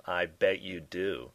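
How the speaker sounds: slow raspy drawl. A narrator's reading. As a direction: rasp it, smoker's dry tone. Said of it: "coughed out a raspy laugh".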